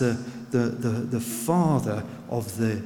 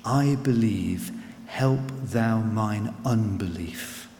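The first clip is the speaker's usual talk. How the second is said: put-on quiet old prayer; 4 semitones lower, slower than usual. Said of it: "in the old language".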